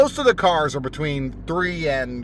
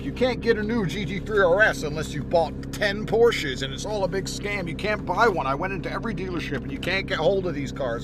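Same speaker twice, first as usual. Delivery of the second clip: lightly imitated complainer, pitched up; mock complaining; 4 semitones higher than usual. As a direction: put on a slightly higher complaining voice. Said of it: "by some brokey complaining".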